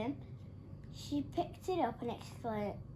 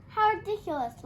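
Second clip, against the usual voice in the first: laughing; 9 semitones higher, 8 dB louder than usual. A narrator's reading. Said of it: "laughed Cockerel".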